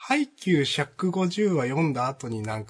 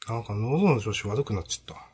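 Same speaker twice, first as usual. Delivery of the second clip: strained throat; 2 semitones lower than usual. Real, not acted.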